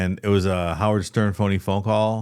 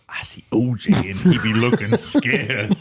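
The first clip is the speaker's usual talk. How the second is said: imitated Jamaican caller, drawn out at the end; Jamaican accent; 2 semitones higher than usual. Prank caller on live coverage, mock Jamaican accent. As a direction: put on a comic Jamaican accent, stretching the last words. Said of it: "this guy's like".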